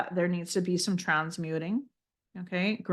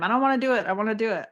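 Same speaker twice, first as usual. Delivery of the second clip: put-on mildly whiny little-kid refusal, pitched up; half-playful childlike complaint; imitating childish protest; 3 semitones higher, much faster than usual. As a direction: lightly mimic a stomping kid's tantrum. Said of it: "stomping my feet like a little".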